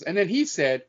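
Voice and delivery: put-on slipping into an English accent. Quoting a friend from England, imitated English accent. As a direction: retell it, drifting into an English accent. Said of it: "just goes into the accent".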